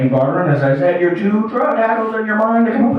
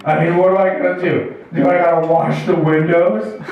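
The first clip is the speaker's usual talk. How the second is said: begging and bartering; 3 semitones lower than usual. Acted. Addict son bargains with mom for litter, begging. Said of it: "it tries to beg and barter".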